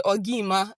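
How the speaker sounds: "Ogi Ima" with vowels merged; joined vowels. Shown as a demonstration. Teacher tells a popular joke about joined vowels. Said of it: "You say".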